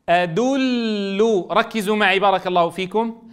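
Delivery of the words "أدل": أدل stretched very slowly, the ل doubled; slow example word. Shown as a demonstration. Teacher giving pupils an example word, drawn out. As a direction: draw out أدل, lingering on the ل. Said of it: "كما في كلمة".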